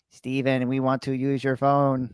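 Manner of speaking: put-on slow, low eerie child at the door; a touch of creepy menace, drawn out. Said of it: "in a very eerie voice being like".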